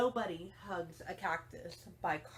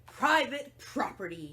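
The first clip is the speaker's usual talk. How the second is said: louder grumpy yell; Hank yelling; 4 semitones higher, 6 dB louder than usual. Acted. Cactus Hank yells the tortoise off, loud. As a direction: bark the warning at the intruder. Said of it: "yelled Hank".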